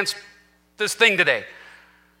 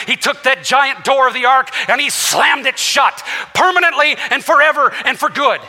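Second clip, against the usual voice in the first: preaching shout; 2 semitones higher than usual. Real, not acted. Preacher describing God slamming door.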